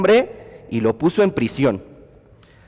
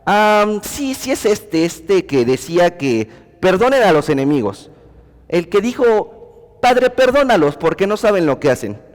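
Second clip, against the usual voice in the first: lightly voiced casual nonbeliever, higher; offhand nonbeliever; 4 semitones higher than usual. A hint of an unbeliever answering the preacher, offhand. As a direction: toss it off like someone half remembering. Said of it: "te dirá".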